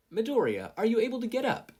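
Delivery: high, loud referee call. A narrator's reading. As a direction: shout across the arena. Referee calls to fallen fighter.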